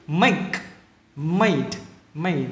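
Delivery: careful Make and made, endings released; final consonants kept. Shown as a demonstration. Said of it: "đừng có bỏ mất âm cuối". (Make, made, giữ rõ âm cuối)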